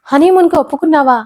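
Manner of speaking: stern confrontation; serious. A narrator's reading. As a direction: demand an answer, no joking. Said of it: "సీరియస్గా అడిగింది మధు".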